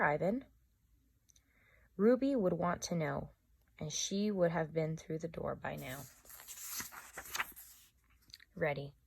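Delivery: measured read-aloud storytelling voice; story narration. A narrator's reading. Teacher reading a novel aloud to students, calm storytelling. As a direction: tell it gently to the class.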